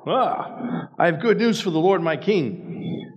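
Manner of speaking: high, breathless herald announcing good news; chirpy servant voice bursting in; eager messenger. A narrator's reading. Cushite messenger arrives, eager.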